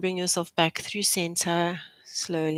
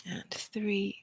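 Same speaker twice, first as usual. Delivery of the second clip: whispered count; 3 semitones higher, 10 dB quieter than usual. Real, not acted. Instructor whispering the rep count to the class. Counting reps during a stretch.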